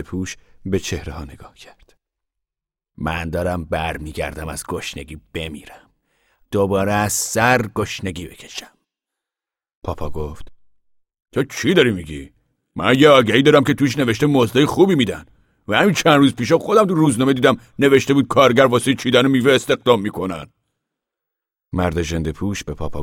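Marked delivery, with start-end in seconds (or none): 3.0-8.8 a worn-out stranger sizing them up; ragged man voiced. 11.3-20.5 loud, earnest farmer's voice, raised high; a proud father of the family speaking out; Papa voiced. Papa addressing the gathered men, loud and earnest.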